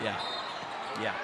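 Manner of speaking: low, soft gloating; quiet satisfaction. Real, not acted. Viewer enjoying the heckler's silence, quiet satisfaction. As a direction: savour it softly, pitch dropped.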